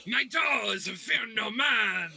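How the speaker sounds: slow heroic boast, shouted; slow hammed-up shout. Champion boasts to the crowd with a hammed-up slow shout. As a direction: roar it like a proud champion.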